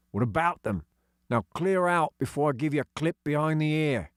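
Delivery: gruff, dismissive workman; sneering digger driver. Acted. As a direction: sneer the order off the kids.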